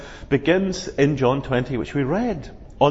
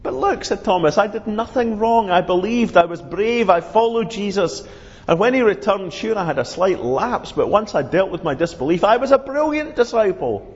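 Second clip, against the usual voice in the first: higher, earnest self-defending Thomas; Thomas insisting; 4 semitones higher than usual. Acted. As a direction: insist on your record, pitched up. Thomas voiced in story.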